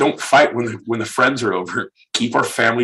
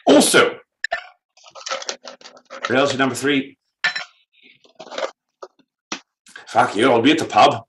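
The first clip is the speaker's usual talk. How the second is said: put-on Irish accent; 2 semitones higher than usual. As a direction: push on with a mock Irish accent. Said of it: "with an Irish accent".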